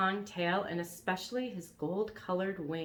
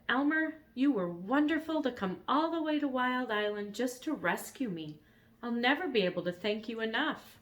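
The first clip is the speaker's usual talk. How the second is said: gentle dragon voice; 5 semitones higher than usual. Acted.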